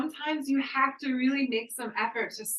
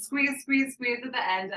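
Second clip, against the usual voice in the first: louder, higher, pushing each squeeze; urgent coaching cue; 4 semitones higher, 5 dB louder than usual. Real, not acted. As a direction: drive them through the last bit of breath. Coach urging a forceful exhale.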